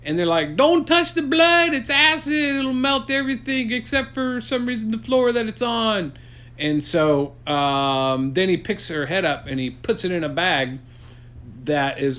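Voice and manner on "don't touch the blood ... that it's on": very high, loud squeaky warning; high frantic warning. Acted. Friends warn Luke about acid blood, high and frantic. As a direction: shriek the warning in a cartoon voice. Group warns in story.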